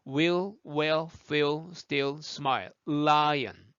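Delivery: word list linked on one breath. Shown as a demonstration. Teacher drilling L words for learners, in one breath. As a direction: run the words together without breathing. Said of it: "한 호흡에 갑니다".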